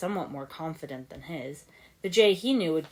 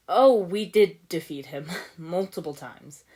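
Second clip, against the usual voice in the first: louder, slow, hollow chuckle through it; hollow laugh; 2 semitones higher, 9 dB louder than usual. A narrator's reading. Lloyd shrugging off doubt about fighting his dad, hollow laugh. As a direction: laugh it off without meaning it. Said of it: "Lloyd laughed, though the sound was slightly hollow".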